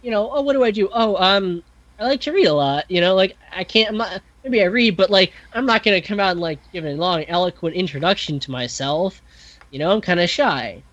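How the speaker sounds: a lightly voiced bashful Tatiana; shy awkward girl. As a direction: fumble like a shy girl introducing herself. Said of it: "she's kinda socially awkward".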